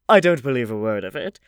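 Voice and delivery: put-on high, fussy old aristocrat; old lady voice. A narrator's reading. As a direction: chatter like a gossipy grand dame.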